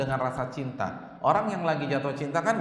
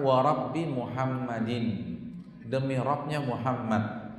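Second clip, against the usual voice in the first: Aisyah content; 3 semitones lower, slower than usual. Retold or imitated. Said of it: "Aisyah kalau lagi senang".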